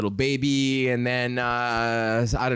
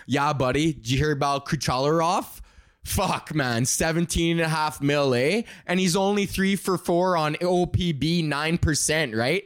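lightly voiced hockey bro; a hint of hockey-guy slang cadence; hockey talk. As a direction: rattle off stats like a hockey fan. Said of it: "what hockey talk sounds like".

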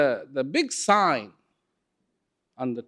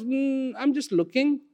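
awed customer; 11 semitones higher than usual. Acted. Customer answers shopkeeper, awed.

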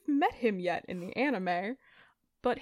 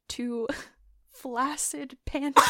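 breaking into laughter on the punchline; can barely get the words out for laughing; laughing through it; 16 dB louder than usual. Real, not acted. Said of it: "are you crying?".

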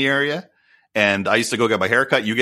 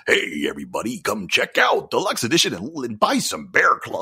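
mock ad announcer. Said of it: "he's the greatest voice I've ever heard".

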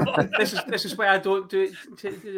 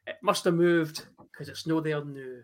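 mock poem recital; 3 dB louder than usual. The speaker reads his birthday poem to Cal, mock-grand recital. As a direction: recite the silly poem like a grand performance, then let it tail off. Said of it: "It goes like this".

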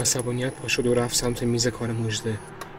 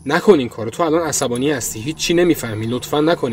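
desperate plea; 3 semitones higher, 3 dB louder than usual. Acted. Pleading loudly.

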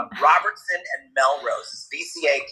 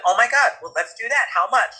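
high, eager retold reply; eager agreement; 6 semitones higher than usual. Cat's rescuer answering the vet, eager and high. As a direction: jump at the offer, pitch lifted.

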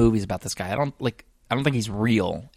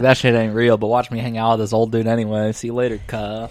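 imitated sister; 5 dB louder than usual. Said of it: "Yeah, she's like".

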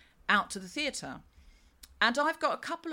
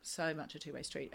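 softer, trailing, to herself; soft repeat; 4 semitones lower, 8 dB quieter than usual. Real, not acted. Repeating the phrase to herself, soft and trailing off. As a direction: let it fall away, half to yourself.

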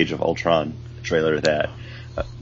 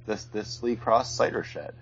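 congested, blocked-nose voice; stuffy nose; 12 dB quieter than usual. Real, not acted. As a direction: talk through a head cold. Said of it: "I'm all stuffed up".

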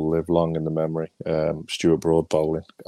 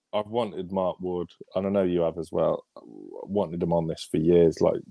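croaky voice. Real, not acted. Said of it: "I apologise for my croaky voice".

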